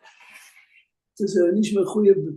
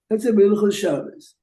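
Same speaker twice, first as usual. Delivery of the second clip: louder repeat; 3 semitones higher, 4 dB louder than usual. Shown as a demonstration. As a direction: say it again, louder and clearer. Repeats example after listener query.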